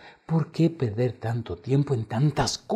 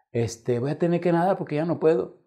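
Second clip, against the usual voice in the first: panicked plea; 8 semitones higher than usual. Retold or imitated. Drowning pupil pleads.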